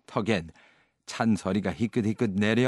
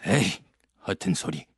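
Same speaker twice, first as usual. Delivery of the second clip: dismissive grumble; 3 semitones lower than usual. A narrator's reading. Scrooge dismisses nephew.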